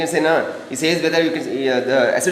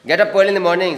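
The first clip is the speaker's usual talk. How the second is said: advising, up and a bit louder; suggestion; 5 semitones higher, 3 dB louder, faster than usual. Shown as a demonstration. Teacher models a suggestion sentence for the class. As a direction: give it as friendly advice.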